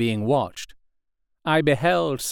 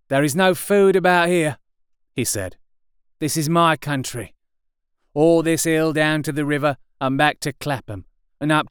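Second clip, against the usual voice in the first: guarded soldier, higher and louder; gruff possessive survivor; artilleryman; 5 semitones higher, 3 dB louder than usual. A narrator's reading. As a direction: warn him off his patch. Voices the artilleryman.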